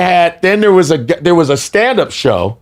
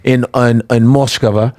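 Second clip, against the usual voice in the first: fake Russian accent. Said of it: "that's a great fake Russian".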